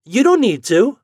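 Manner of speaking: high, loud protest; boyish cry. A narrator's reading. Boy to his mother, protesting cry. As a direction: cry out to put her off. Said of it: "cried the boy".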